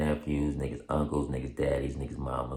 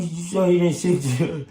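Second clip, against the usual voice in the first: high, slow doubting question; imitating the officer; 11 semitones higher, 4 dB louder than usual. The officer checking again, slow and high.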